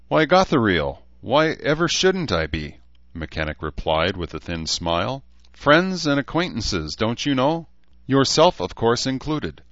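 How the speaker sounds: playful, lifted jibe; jibing Mechanic. Acted. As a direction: needle the elf with lofty politeness.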